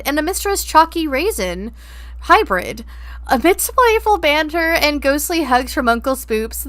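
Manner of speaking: lightly voiced wildlife narrator; nature documentary. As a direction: narrate chat like a nature film. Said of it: "That was poetic".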